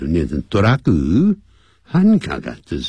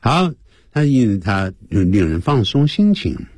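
ordinary delivery

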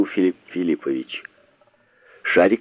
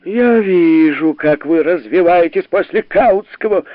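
higher, slow shrieked retort; shrill cry; 7 semitones higher, 4 dB louder than usual. A narrator's reading. The professor shrieks at Sharikov, higher and slow. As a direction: shriek it out in rage. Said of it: "визгливо ... крикнул Филипп Филиппович".

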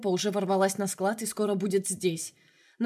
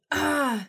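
a choked yelp under pressure; hoarse cry; 7 semitones higher than usual. A narrator's reading. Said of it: "захрипел Ардусян". (короткий хриплый вскрик)

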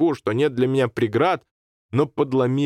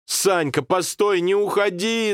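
mild mock wail; 11 semitones higher, slower than usual. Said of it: "завопил я".

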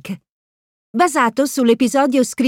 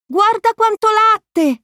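much higher, slow goofy amazement; Goofy exclaiming; 10 semitones higher, slower than usual. A narrator's reading. Goofy marvels at the milk cartons, goofy amazement. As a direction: marvel like a dopey goof. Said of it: "esclama Pippo".

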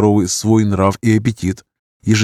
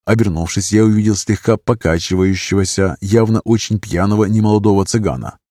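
plain reading voice

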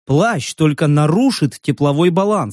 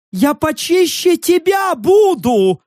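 high, slow indignant creature growl; offended creature snarling at Rek; growled retort; 11 semitones higher, slower than usual. A narrator's reading. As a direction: snap back like an offended furry beast. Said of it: "зарычал мохнатый Стив".

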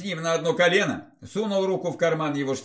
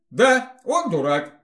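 eager babble; 5 semitones higher, 4 dB louder, slower than usual. A narrator's reading. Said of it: "охотно пролепетала она".

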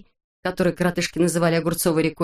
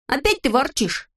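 high teasing reproach; Neznaika's voice; 7 semitones higher than usual. A narrator's reading. Neznaika chiding Vorchun, high voice. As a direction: needle the grumbler.

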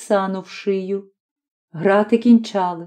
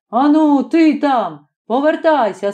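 a raised, bossy mock shout; 5 semitones higher than usual. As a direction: bark it like a foreman. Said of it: "прийде який чорт і кричить".

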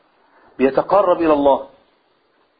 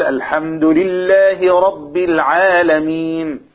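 slow chanted verse; Quran recitation; much slower than usual. Shown as a demonstration. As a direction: recite it slowly like an imam. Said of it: "لما قال".

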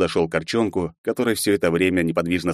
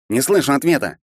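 bully's demand; 8 semitones higher, 4 dB louder than usual. A narrator's reading. Bully half-elf threatening a boy.

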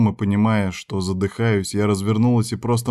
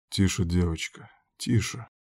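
much softer, low hush; whispering; 3 semitones lower, 7 dB quieter than usual. A narrator's reading. Cypher soothes the crying girl, whispering. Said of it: "прошептал он".

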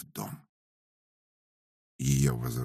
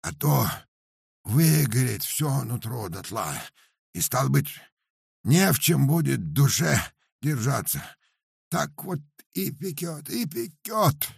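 high, loud peasant lament; pitched-up complaining muzhik; Paramon's voice; 11 semitones higher, 4 dB louder than usual. Acted. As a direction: wail about the burning chest like a simple peasant. Paramon describes burning inside.

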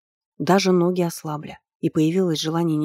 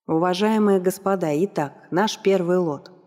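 drawn-out announcer. Acted. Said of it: "Он тянул слова".

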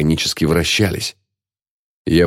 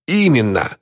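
high, emphatic confirmation; voice clearing, strengthening; 7 semitones higher than usual. A narrator's reading. Old man confirms the wedding to friend, voice strengthening. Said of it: "Голос Джеральда прояснился и окреп".

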